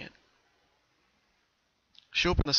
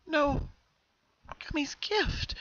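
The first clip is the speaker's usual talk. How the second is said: near tears; much slower than usual. Acted. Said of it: "her lip quivering as tears threatened".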